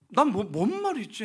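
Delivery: high, loud, stammered confusion; retold flustered reaction; bewildered. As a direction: act caught completely off guard. Retells his bewildered reaction.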